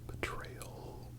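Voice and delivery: ordinary talk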